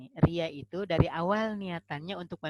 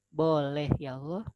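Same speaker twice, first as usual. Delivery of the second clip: acted tearful pleading. Convert pleading with Allah for unbelieving parents, lightly acted tearful prayer. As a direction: coax gently, as if close to tears. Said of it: "nangis sambil nangis".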